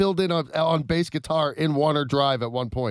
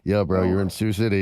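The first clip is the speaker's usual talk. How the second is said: aide correcting; 7 semitones lower than usual. Retold or imitated.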